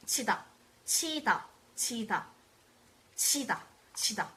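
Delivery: teacher modelling 치다 for repetition; Korean word drill. Shown as a demonstration. Teacher drills the verb 치다 in a live class, clear model word. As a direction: say 치다 crisply as chi-da for students to repeat. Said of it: "you would use this verb 치다".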